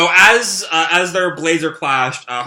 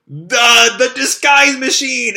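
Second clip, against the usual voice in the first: much higher, louder exclamation; shocked exclamation; 9 semitones higher, 5 dB louder, slower than usual. Acted. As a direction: blurt it out in shock. Shocked recognition of gadget.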